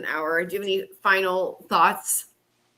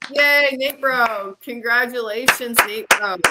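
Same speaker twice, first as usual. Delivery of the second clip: drawn-out cheerful cheer, louder; excited announcement; 3 semitones higher, 5 dB louder, slower than usual. Real, not acted. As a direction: cheer the winner's name. Announcing giveaway winner.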